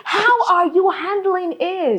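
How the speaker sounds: slow, drawn-out weary plea; slow and exasperated. Real, not acted. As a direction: stretch it out, worn out.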